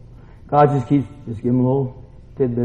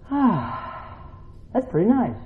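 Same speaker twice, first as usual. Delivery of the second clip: acted soft relief; 7 semitones higher, 7 dB quieter, slower than usual. Acts out relief in the shade.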